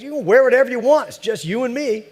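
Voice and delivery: fast, high, loud leering delivery; old neighbor delivering the creepy punchline; sly punchline. Retold or imitated. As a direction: rush the punchline with a knowing leer.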